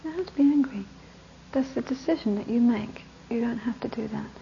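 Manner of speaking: soft, patient repetition; calm repeating. Retold or imitated. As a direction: keep saying it gently. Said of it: "I just kept on repeating".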